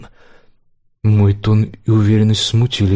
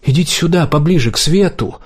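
higher, summoning the actor; lightly voiced director; 6 semitones higher than usual. A narrator's reading. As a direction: call him to the light. Tortsov voiced, high.

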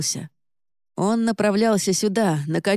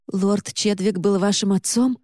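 breathless blurt; 3 semitones higher than usual. Acted. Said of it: "задыхаясь, выпалила я".

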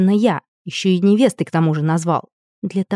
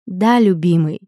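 breathy. Acted. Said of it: "с таким придыханием это прозвучало".

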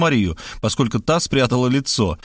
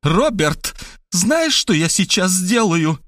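dangerously calm; 5 semitones higher, slower than usual. Acted. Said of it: "опасно успокаиваясь".

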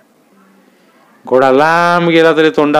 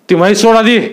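stern command; 7 semitones higher than usual. A narrator's reading. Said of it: "फाडकन चाबकाचा आवाज करून ते म्हणाले".

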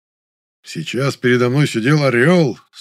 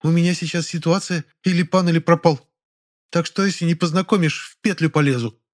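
lightly voiced girl, desperate; 8 semitones higher than usual. A narrator's reading. Nonna's desperate ultimatum.

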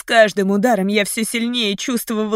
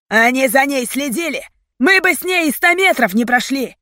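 heated, higher-pitched rebuttal; angry retort; 6 semitones higher, 4 dB louder than usual. A narrator's reading. Leader answering the accusation, heated retort. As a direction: snap back in self-defence.

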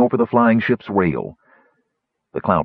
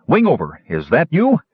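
higher, louder call back; shouting in reply; 7 semitones higher, 3 dB louder than usual. A narrator's reading. Sturm answering the gnome above, shouting. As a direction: call out into the wind. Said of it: "he shouted in reply".

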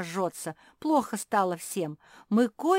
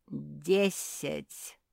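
bass voice; 2 semitones lower than usual. A narrator's reading. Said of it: "сказал чей-то бас".

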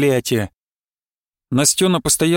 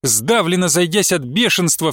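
usual speaking voice

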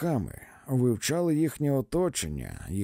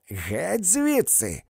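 higher, slow shout of Геть звідси; higher shouted get out; repeated shout; 8 semitones higher, 3 dB louder, much slower than usual. A narrator's reading. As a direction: throw them out once more. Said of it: "повторила вона".

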